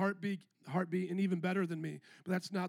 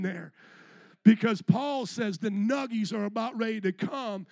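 excited build-up; 5 dB louder than usual. Acted. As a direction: get them hyped like striking gold. Building excitement about the gold rush.

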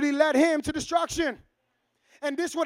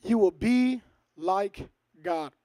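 Satan's whisper; 8 semitones lower, 4 dB quieter, much slower than usual. Acted. Satan's lie quoted to Eve.

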